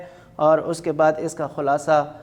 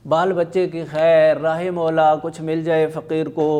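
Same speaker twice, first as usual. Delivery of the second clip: beggar's call; 5 dB louder than usual. Acted. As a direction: call out like a street beggar asking for charity. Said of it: "ایک فقیر کی آواز بھی شامل ہو جاتی ہے".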